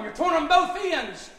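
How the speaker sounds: "both" leaned on, slow and loud; slow, punched preacher emphasis; slow emphatic. Real, not acted. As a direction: drag it out and hit "both". Preacher pressing the point.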